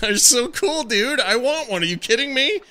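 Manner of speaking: bursting with fan excitement; excited. Real, not acted. Gushing about giant action figures.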